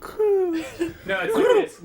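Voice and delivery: slow, high mock coo of an angry pigeon, laughing. Shown as a demonstration. Friend demonstrates the pigeon's angry coo for the group, slow and high. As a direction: coo it like a cranky bird. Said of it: "Vernon, can you please coo angrily?".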